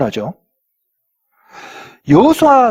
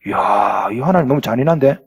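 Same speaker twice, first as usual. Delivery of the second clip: new believer's shock; 9 semitones lower than usual. Retold or imitated. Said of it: "초신자들이 ... 딱 걸리는 부분".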